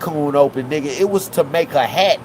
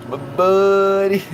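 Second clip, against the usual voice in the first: laughing; 4 semitones higher, slower than usual. Acted. Mock pity, laughing through.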